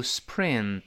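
"spring" shown as the error to avoid; mistaken "spring" reading. Shown as a demonstration. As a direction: say "spring" carefully as a learner's wrong version. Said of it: "不要读spring".

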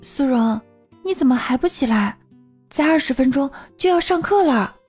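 put-on gently concerned girl; caring roommate nudging. A narrator's reading. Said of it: "关心道".

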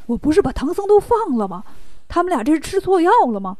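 baffled, lively questioning; mild indignant astonishment; surprised demon. Acted. Demon chief hears his enemies are back, surprised. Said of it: "黄袍怪很吃惊啊".

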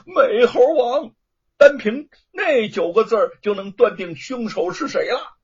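loud and high, punching the nine words; loud declaration. A narrator's reading. Son loudly tells the prefect of the writing on the wall. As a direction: proclaim it to the whole hall. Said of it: "大声地说".

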